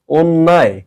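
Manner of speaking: অন্যায় said as ওন্নায়; correct pronunciation. Shown as a demonstration. Teacher modelling the word, অন্যায় with closed o. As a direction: start অন্যায় on a closed o, doubled n. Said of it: "এটাকে বলবো".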